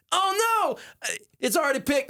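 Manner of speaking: high, dismayed realization; mock horror at a wasted pick. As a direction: act out the sinking moment of a taken pick. Retold panic at draft board.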